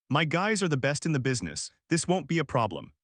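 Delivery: "This won't be a problem" with every word hit firmly; each word emphasized. A narrator's reading. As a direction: punch each word for powerful effect. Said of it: "emphasized each word for powerful effect".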